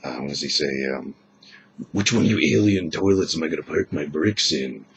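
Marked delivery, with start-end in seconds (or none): 1.9-4.9 lightly done tough action-hero growl; a hint of macho action-hero bravado; half-hearted tough-guy one-liner; Duke Nukem impression. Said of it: "I can do, uh, Duke Nukem".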